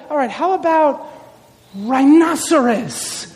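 drawn-out, improvised naming; pondering Adam. Acted. Adam naming the next animal, lightly acted pondering. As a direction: stretch the final name out as if inventing it. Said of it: "Then he's like".

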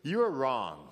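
slow, confident correction; imitated self-assured rebuttal; self-confident contradiction. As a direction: tell him firmly and slowly, imitating Peter. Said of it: "confident in himself here".

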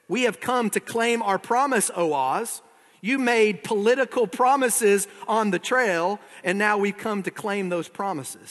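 demanding petitioner. Acted. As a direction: state the demand firmly and formally. Dorothy demands promise from Oz.

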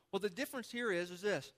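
talking through a bite of cinnamon roll; words round a mouthful of food; mouth full. Real, not acted. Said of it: "I can't even talk".

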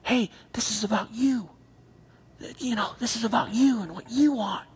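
a hint of a sly tempter; lightly voiced coaxing lie; Satan tempting. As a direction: tempter murmuring in your ear. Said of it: "Satan starts working and saying".

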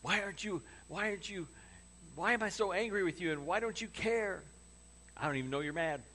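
high, sing-song clueless spouse voice; oblivious partner. Retold or imitated. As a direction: play the carefree partner who has no idea. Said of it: "They're just like".

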